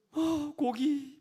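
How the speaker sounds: put-on drawn-out childish whimper for meat; whiny crying child. Preacher mimics Israelites whining for meat like a child, slow whimper. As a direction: whine it slowly like a crying kid. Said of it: "막 이렇게 울면서요".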